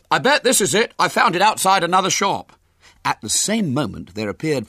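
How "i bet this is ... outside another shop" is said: put-on high, loud, triumphant boy; exultant. A narrator's reading. William showing friends the pram he found, exultant. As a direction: announce the find loudly, pitched right up. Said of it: "he called exultantly".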